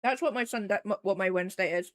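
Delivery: talking around an ice cube; mouth full. Real, not acted. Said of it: "I got ice cube in my mouth".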